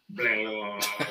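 loose, repeated blah sound effect; imitated floppy noise. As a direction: imitate something flopping with babbled blahs. Imitating something flopping about.

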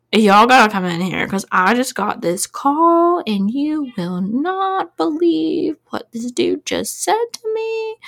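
rising, drawn-out mock disbelief; slow down and climb in pitch as you share unbelievable news; incredulous operator. Imagined operator calling colleagues over.

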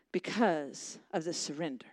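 whispered emphasis. Real, not acted. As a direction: drop to a whisper.

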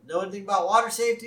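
quick, high neighbor voice; Ned. Retold or imitated. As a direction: rattle off the friendly question up high. Ned questions Abe in retold scene.

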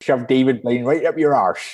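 light West Country burr; West Country accent. Retold or imitated. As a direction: say it with a Somerset twang. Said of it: "from the West Country now".

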